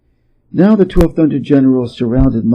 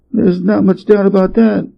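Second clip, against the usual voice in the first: sheepish grin; 7 semitones higher than usual. A narrator's reading. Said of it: "with a sheepish grin".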